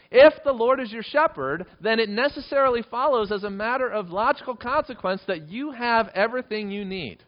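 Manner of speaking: high, loud, impassioned proclamation; fervent preaching. Real, not acted. Preacher presses the psalm's logic on congregation, loud and impassioned. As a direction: drive it home at full force.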